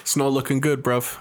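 low put-on British street accent; urban British accent. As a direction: toss it out as a British roadman would. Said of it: "that's the kind of accent I would want".

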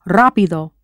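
RÁ in rápido stressed; rápido, accented at the start; stress on first syllable. Shown as a demonstration. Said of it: "with that accent".

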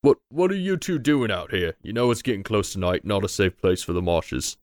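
lightly voiced guard questioning travellers; a hint of an official stopping strangers; game master voicing a guard; wary guard.

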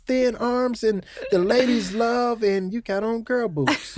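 teasing Deacon in disbelief; mock address to Deacon. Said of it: "I was like".

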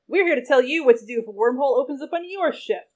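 every word an exclamation; pumped-up infomercial host; overly enthusiastic. Acted. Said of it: "Mark spoke only in exclamation points".

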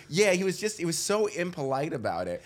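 hammed-up indignant woman; prim passenger. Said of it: "another woman says".

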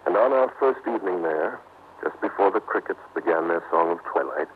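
measured first-person radio narration; story narration. A narrator's reading. Husband telling listeners of his honeymoon, measured narration. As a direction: recount it evenly to an audience.

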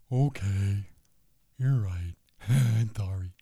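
soft, sheepish mock surrender; mock meek apology. Host mocks people backing down, soft and sheepish. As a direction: play the meek pushover who gives in.

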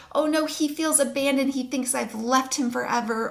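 mild mock dismay, fretting over a child; worried parent. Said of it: "we hear our child cry and we think".

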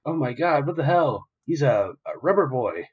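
high, loud stunned outburst; shocked disbelief. Retold or imitated. Soldiers seeing bullets bounce back, shocked high cry. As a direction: gasp it out like you can't believe it.

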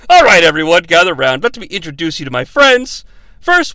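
booming call to gather the crowd; big showman call to assemble; loud announcing. Retold or imitated. Villain summoning his team, loud showman call.

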